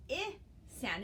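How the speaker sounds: "I" said as short i, as in zip; short i sound. Shown as a demonstration. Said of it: "The letter I would make the".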